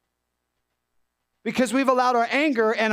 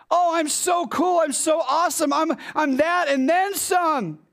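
boastful king; 5 semitones higher than usual. Retold or imitated. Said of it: "He's like".

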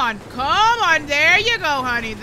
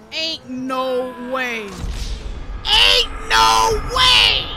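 disbelief; 3 semitones higher, 8 dB louder, much slower than usual. Real, not acted. Character dies after hard work.

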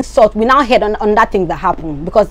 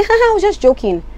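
mock laugh; 10 semitones higher than usual. Mocking Maria's fake laugh.

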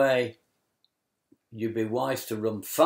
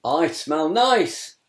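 shouting; 4 semitones higher, 4 dB louder than usual. Acted. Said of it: "he shouts".

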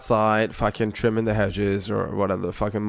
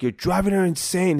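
retold yelling; 8 semitones higher than usual. Manager accusing tenant over the drilling, mock yelling. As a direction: imitate an angry manager, voice jumping higher. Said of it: "He's, like, yelling at me and shit".

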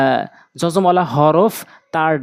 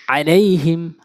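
syllables joined into one word; quick reading; slower than usual. Shown as a demonstration. Teacher showing learners the joined reading, quickly. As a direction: read it briskly in one go. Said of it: "দ্রুতটা উচ্চারণ করতে হবে".

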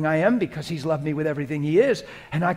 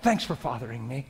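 casual, softly spoken thanks to God; easy, intimate prayer, softening toward the end; private prayer; 6 dB quieter than usual. Shown as a demonstration. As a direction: chat with God as if alone while driving. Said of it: "I'll be driving and just talk like that".

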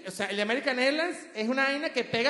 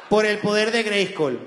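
He-Man call; 4 dB louder, slower than usual. Retold or imitated. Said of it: "como que si era He-Man".

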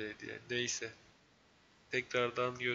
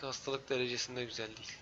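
stuffy nose; 8 dB quieter than usual. Real, not acted. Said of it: "Şu an benim burnum tıkalı".

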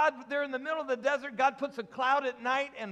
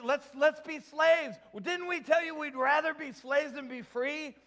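higher-pitched mock complaint; complaining Israelites; 4 semitones higher than usual. Israelites complaining to Moses in the desert, pitched-up protest. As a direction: act out the people's grievance to Moses. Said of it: "they lost it because they complained".

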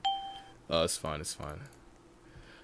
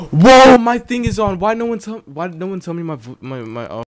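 startled gasp into high processed voice; pitched-up voice changer, loud and alarmed; 8 semitones higher, 12 dB louder than usual. Real, not acted. Streamer startled to find the changer on, high altered voice. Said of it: "my voice changer was on".

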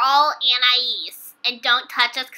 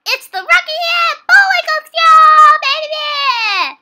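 high, loud cartoon announcement; show-opening shout; 12 semitones higher, 9 dB louder than usual. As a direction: holler the show title with gusto.

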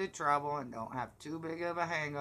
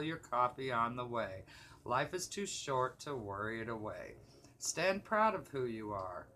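steady, rhyming poem recital; poem reading. Real, not acted. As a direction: read your own verse aloud, each phrase starting up and settling down. Reads own poem aloud.

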